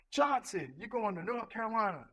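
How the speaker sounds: announcing orders to a formation; calling out names. Retold or imitated. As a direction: call the name out like a sergeant.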